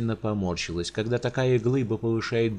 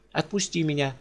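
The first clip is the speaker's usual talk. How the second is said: loud demand; 6 semitones higher than usual. Acted. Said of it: "громогласно потребовала Алисанда".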